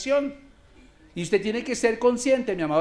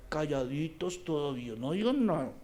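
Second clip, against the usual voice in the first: soft, lower acted command to keep quiet; hushing the people; 6 semitones lower, 10 dB quieter than usual. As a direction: hush a crowd under your breath. Voicing Joshua hushing the people. (mandando callar en voz baja)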